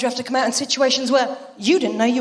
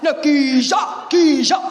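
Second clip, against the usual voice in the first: shouted geezer. Shown as a demonstration. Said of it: "proper fucking geezer".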